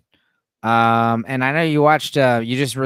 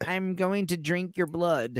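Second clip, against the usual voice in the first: slow, softer vampire voice; Dracula; 6 dB quieter, slower than usual. Acted. Co-host imagining the count speaking, slow and hushed vampire. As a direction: draw each word out softly, playing a vampire. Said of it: "Could you imagine Dracula like".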